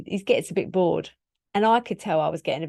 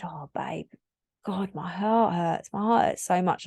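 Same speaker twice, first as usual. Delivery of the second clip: tearful heartache. Retold or imitated. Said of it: "And I was crying".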